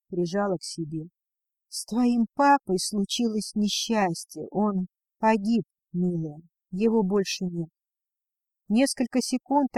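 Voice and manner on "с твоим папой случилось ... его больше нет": медленно и мягко; осторожно сообщить горькую весть; бережно. Acted. Мать сообщает дочери о смерти. (мать медленно и бережно говорит дочери о гибели отца)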